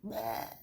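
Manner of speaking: a soft, low mock gag sound; dog's gag imitated. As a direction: quietly imitate the dog gagging. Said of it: "like, gag".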